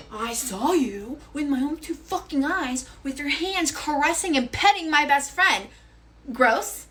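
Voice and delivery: slow, emphatic retold accusation; indignant re-enacted confrontation; accusing. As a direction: spell out the charge with disgust. Accuses boyfriend in retold quarrel.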